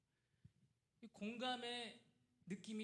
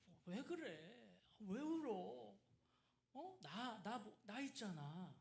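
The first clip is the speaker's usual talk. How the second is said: tender husband; 3 dB quieter, much slower than usual. Retold or imitated. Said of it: "막 이렇게 얘기하는 것 같잖아요".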